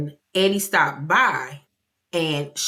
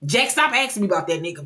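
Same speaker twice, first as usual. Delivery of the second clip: quick, retold snap at a child; rushed mock scolding; snapping; 3 semitones higher, much faster than usual. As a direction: imitate a mother losing patience, fast. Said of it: "She snapped on it".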